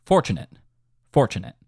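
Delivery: "Fortunate" with stress on FOR; downbeat heavy. Shown as a demonstration. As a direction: hit the first syllable of "Fortunate". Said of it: "Very downbeat heavy for sure".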